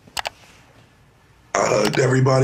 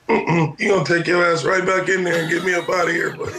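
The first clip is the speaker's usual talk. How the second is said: laughing defiance; 4 semitones higher than usual. Retold or imitated. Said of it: "And I was like".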